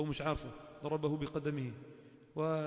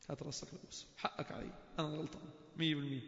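whispered apology; 6 dB quieter than usual. Acted. Acted apology to the other person.

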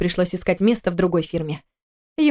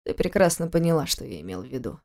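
calm; 6 semitones lower, 6 dB quieter than usual. A narrator's reading. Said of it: "продолжил он также спокойно".

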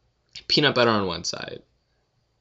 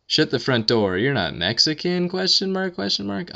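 hammed-up disbelief, a bit louder; mock surprise; 8 semitones higher, 4 dB louder than usual. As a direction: play it as fake shock at the question. Reading question in mock voice.

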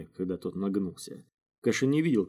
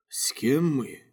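slightly higher, musing question; thoughtful query; 6 semitones higher, much slower than usual. A narrator's reading. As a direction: echo the question, pondering it. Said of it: "задумчиво переспросил он". (задумчиво переспрашивая)

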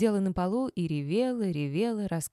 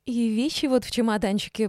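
high, loud, gushing chatter; 5 semitones higher, 5 dB louder than usual. A narrator's reading. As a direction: prattle on eagerly to win her over. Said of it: "продолжила заливаться соловьём Валеева". (заливаясь соловьём)

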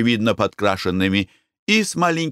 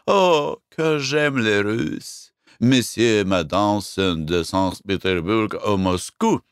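gushing French madame; slower than usual. Acted. Fat French owner gushes.

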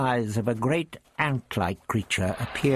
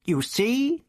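put-on raised, testy old man voice; the Doctor lectures Ian, smug and raised; 13 semitones higher than usual. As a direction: play the prickly old Doctor. The doctor speaking.

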